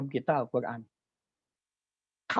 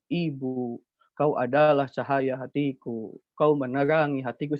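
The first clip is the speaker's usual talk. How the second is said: deklamasi anak SD; 2 semitones lower than usual. Shown as a demonstration. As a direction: recite it like a child reading a poem about mother. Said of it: "Seperti itu intonasinya". (deklamasi puisi ala anak SD, pelan)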